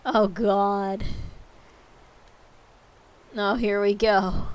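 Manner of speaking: raspy chain smoker rasp. Real, not acted. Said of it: "I sound like a chain smoker already".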